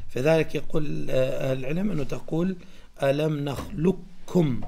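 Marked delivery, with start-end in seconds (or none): 3.0-4.6 "نخلقكم" with the qaf merged into a stressed doubled k; "نخلقكم" said nakhlukkum; doubled heavy k. Shown as a demonstration. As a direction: recite "ألم نخلقكم" with the k doubled. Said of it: "فتشددها".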